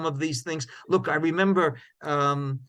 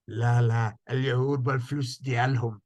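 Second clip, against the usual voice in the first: put-on Moroccan Arabic accent, lower voice; 3 semitones lower than usual. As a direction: quote the book dealer in a Moroccan accent. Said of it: "forgive the Moroccan accent".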